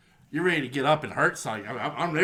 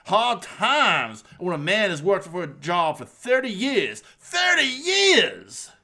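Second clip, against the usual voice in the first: Dusty Rhodes impression. Podcast host imitating Dusty's Hard Times promo for his cohost, lightly voiced wrestler promo. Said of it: "I'm trying to do a Dusty impression".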